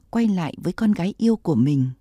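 ordinary delivery, nothing marked

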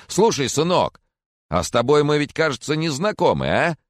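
put-on jolly old man. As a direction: play the doting old neighbour, up high. Corcoran voice.

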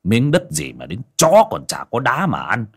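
cold, dismissive tyrant laying down terms; scornful landlord naming his price; arrogant moneylender. Acted. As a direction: threaten him like he is dirt. Moneylender threatens to take land.

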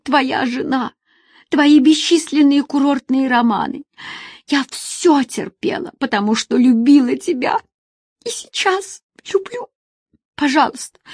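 weeping woman pleads with Asim; tearful woman. Acted. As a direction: beg him to come back. Woman tearfully begging him back.

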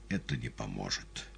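тише и ниже; голос садится; севший голос. A narrator's reading. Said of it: "тут голос Пилата сел". (севшим голосом)

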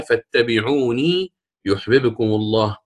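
slow, with lengthened vowels; Quran recitation. Shown as a demonstration. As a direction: recite the quoted verse with measured madd. معلم يتلو آية مستشهدا. (تلاوة متأنية بالمد)

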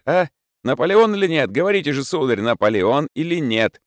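high, loud furious tirade; furious outburst. A narrator's reading. Mark Ivanovich raging at Prokharchin by the bed, furious. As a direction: rage at him, trembling with fury. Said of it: "весь дрожа от досады и бешенства".

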